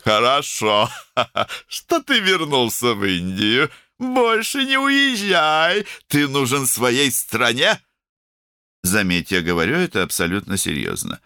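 high, emphatic, opinionated character voice; outspoken woman doctor. A narrator's reading. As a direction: hand down brisk opinions in a high voice.

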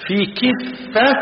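"كفة" slow, with a clear i after the k, kiffa; كفة بكسر الكاف; kasra on kaf. Shown as a demonstration. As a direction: stretch "كفة" and keep the k short-i. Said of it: "بكسر الكاف وليس بفتحها".

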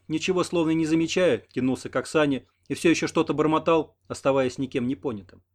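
ordinary delivery, nothing marked

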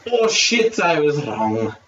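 a light mock Scottish accent, jumping up on the oh; half-hearted Scottish impression of a man caught out. Doctor admitting he was wrong, in a lightly mocked Scottish accent. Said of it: "That's best Scottish accent".

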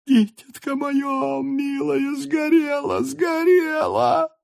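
very high, drawn-out crying wail; keen over the lost child; sobbing wail. A narrator's reading. Mother sobs again for her burned child, wailing. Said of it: "И опять она зарыдала".

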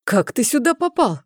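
high, irritated shout; annoyed shout. A narrator's reading. Rognvald shouts at the boy in annoyance, high and irritated. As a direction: snap the question out in vexation. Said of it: "крикнул в досаде Рёгнвальд".

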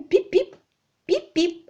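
high, bright pip-pip; chirpy pip-pip. A narrator's reading. Young man congratulating the maid, high chirpy. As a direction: chirp it like a cheery toot. Cheery bye-bye exclamation.

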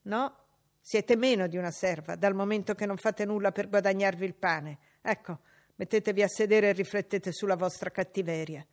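loud, cold rebuke; stern maid. Acted. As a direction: put the girl in her place. Abbott scolding.

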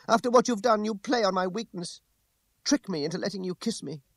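high-pitched outraged woman's voice; angry reproach. A narrator's reading. She angrily accuses him.

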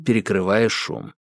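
plain reading voice

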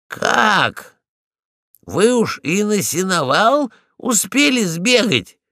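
can't believe she's been everywhere; surprised question. Acted. Polkan asks Ragulya in surprise. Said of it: "удивлённо спросил я".

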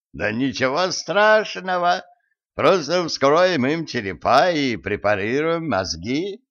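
slow, high, sinister cheer; giggly sinister sing-song. Acted. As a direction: relish it like a mad scientist. Professor jokes about dissecting.

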